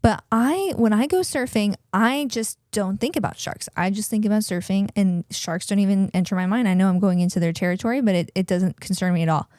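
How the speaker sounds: lightly imitated Australian woman; a hint of Australian in a retold quote; Australian accent. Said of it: "in her Australian accent".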